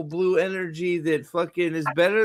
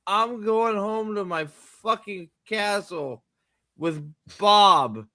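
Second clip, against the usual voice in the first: slow, dry mock politeness; Harry sulking off sarcastically; sarcastic Harry; slower than usual. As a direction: drag it out sarcastically. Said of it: "He's like".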